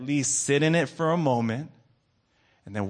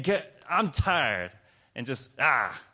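mock exhausted complaint; weary complaint; slower than usual. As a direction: act out a slow, weary moan to yourself. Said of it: "we're tired and we're saying".

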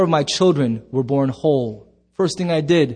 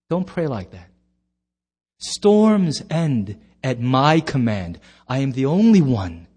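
voice of God; 5 semitones lower than usual. Acted. Voicing God speaking to believers.

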